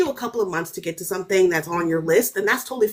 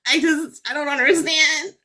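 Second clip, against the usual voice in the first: half-crying bewilderment; 5 semitones higher than usual. Real, not acted. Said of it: "still upset about the film".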